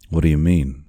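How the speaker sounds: mildly alarmed demand; mild cry. Acted. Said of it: "cried Kiawe".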